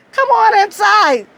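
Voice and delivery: lightly voiced friendly agent; inviting agent. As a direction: coax her in grandly. Agent inviting her, retold.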